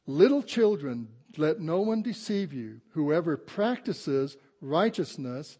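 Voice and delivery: slow, emphatic pulpit reading; scripture reading. Acted. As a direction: read the verse out slowly, word by weighty word. Reads scripture to congregation.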